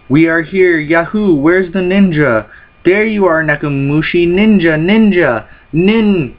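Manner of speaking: excited Luffy. Acted. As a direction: burst in thrilled to finally meet a ninja. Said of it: "And Luffy's all excited".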